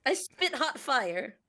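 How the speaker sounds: Dylon impression. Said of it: "Now you're Dylon".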